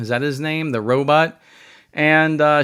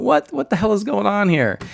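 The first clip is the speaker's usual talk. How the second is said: baffled outburst; 8 semitones higher than usual. Retold or imitated. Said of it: "And I'm going".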